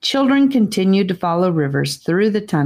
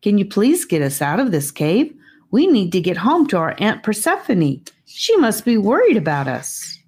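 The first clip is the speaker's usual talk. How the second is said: a lightly voiced, slightly higher pleading child; a child's eager questions, a hint higher than the narrator; earnest child; 5 semitones higher than usual. Children's lines voiced in story.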